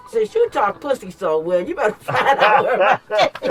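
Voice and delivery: loud, threatening demand; angry. Retold or imitated. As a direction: lay down the threat through a laugh.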